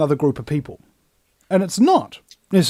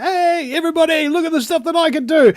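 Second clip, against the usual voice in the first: mock show-off; 9 semitones higher than usual. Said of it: "and be like".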